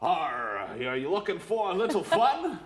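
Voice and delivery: mock pirate with a laugh; half-hearted pirate growl. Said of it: "I'm not a very good pirate".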